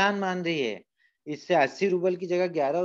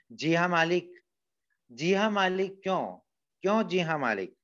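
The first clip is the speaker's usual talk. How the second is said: angry stammering; 4 semitones higher than usual. Acted. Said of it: "गुस्से से तुतलाने लगता है".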